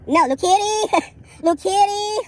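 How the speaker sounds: hammed-up sob turning into laughter; mock wailing quote. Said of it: "that's a House of the Dragon reference".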